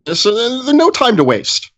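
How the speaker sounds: put-on a pompous old mentor lecturing; old wizard voice. Gnome wizard voice held in play.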